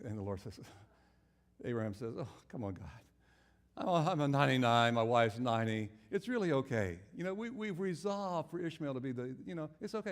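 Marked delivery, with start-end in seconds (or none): 2.2-10.1 loud, pleading objection to God; old man protesting loudly to God. Acted.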